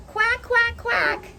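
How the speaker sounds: high, quick quacks; happy duckling. Acted. Ducky squirming with wriggly worm, happy high quacking. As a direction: quack in a high, playful pitch. Duckling refrain in read-aloud.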